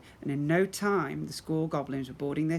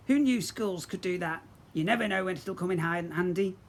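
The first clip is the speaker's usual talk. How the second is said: pirate captain voice; 3 semitones higher than usual. Acted.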